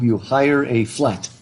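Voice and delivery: British phrasing. Shown as a demonstration. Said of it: "you don't rent a room".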